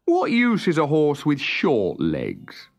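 slow, a touch of tearful self-pity; slow, understated sorrow; mild despair. Acted. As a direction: ask it as if close to tears. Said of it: "And he began to cry".

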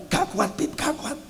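soft, strained angel who can't hold the rain; weary angel voice. Acted. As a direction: mutter it like the rain is too heavy. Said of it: "sudah bilang". (malaikat lirih kewalahan)

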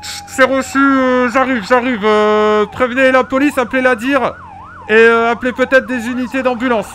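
hammed-up firefighter on the radio; police radio. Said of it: "je vous mets dans l'ambiance".

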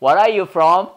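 mock-rude question, lightly acted; a touch of insolence, rising at the end; rude American. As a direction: ask it like an ill-mannered stranger. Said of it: "버릇없는 사람은 어떻게 물어?".

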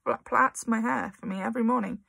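put-on scared, stammering child; frightened stutter. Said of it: "managed to stutter".

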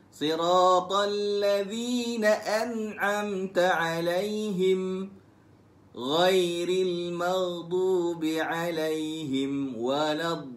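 slow melodic chanted recitation; Quran recitation. Shown as a demonstration. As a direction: recite in a slow tarannum line. Recitation demo. (bacaan al-Quran berlagu perlahan)

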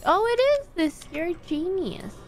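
sudden excited high cry. Real, not acted. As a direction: burst out in discovery. Door opens.

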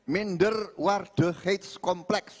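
slow Dutch phrase in a Banyumas accent. Shown as a demonstration. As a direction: say the Dutch deliberately with a Banyumas lilt. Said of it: "bahasa Belanda dengan logat Banyumas".

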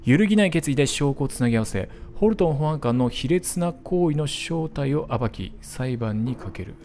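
steady storyteller reading; 物語を語るように朗読; narration read. Acted. Reads ending text aloud.

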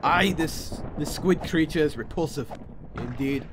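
lightly voiced pirate disgust; a hint of sea-dog. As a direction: pronounce judgment as a half-hearted pirate. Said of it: "trying to talk in a pirate voice".

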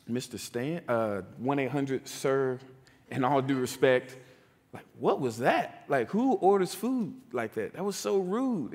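lightly voiced boy calling out his mentor; teenage kid voice. Kids questioning mentor's rudeness.

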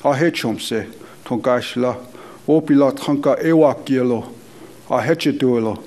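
spoken prayer in Dakota. Real, not acted. Elder leading the gathering in prayer, measured and solemn. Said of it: "lead us in a prayer".

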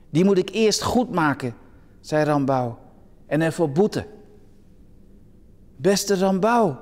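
lively storytelling read-aloud with voiced figures; story reading. Preacher reads an anecdote to listeners, lively storytelling. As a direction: tell the parelvisser tale to the church.

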